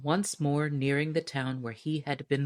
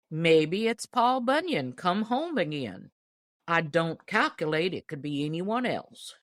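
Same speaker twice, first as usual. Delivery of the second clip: lightly voiced old deacon. Deacon musing to the store loafers, lightly voiced old man.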